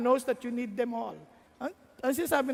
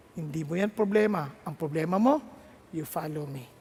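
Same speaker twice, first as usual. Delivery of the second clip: lightly lower, calm firm answer; voice of God; 6 semitones lower than usual. Acted. God calmly answering the anxious young pastor, a little lower.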